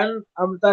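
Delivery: انعمت opening on ع, with a hamza after the n; swapped ain and hamza. Shown as a demonstration. Teacher mimicking students' mistake, swapped sounds in انعمت. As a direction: swap the two throat sounds in انعمت. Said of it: "عین سے بدل دیتے ہیں اور عین کو حمزہ سے".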